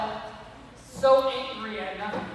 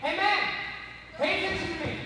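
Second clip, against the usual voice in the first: higher-pitched, mock-indignant demand; getting mad; 5 semitones higher than usual. Snake demanding the other snake's attention, mock annoyed. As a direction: act out a snake's mild temper. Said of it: "And he gets mad".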